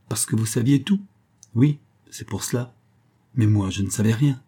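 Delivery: clipped and dry, no warmth; dry, curt tone. Acted. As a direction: answer him dryly, giving nothing away. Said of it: "du même ton sec".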